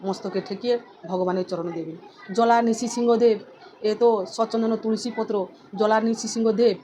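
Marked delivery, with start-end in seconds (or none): 2.3-6.8 slow offering mantra; mantra demo. Shown as a demonstration. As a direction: recite it as you offer the leaf. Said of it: "এইভাবে আপনারা অর্পণ করতে পারেন".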